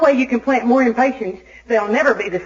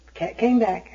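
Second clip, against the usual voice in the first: dropped, softer echo of the line; quiet repeat; 5 dB quieter than usual. Shown as a demonstration. Repeating the cat news to the audience, softer and resigned. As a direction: let it sink in, quietly. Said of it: "repeated punchline".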